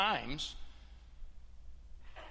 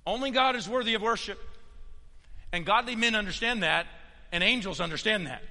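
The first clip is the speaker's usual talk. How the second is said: raised, forceful pulpit voice; emphatic preaching; 5 semitones higher, 5 dB louder than usual. Real, not acted. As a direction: drive the point home to the congregation. Drives the point home.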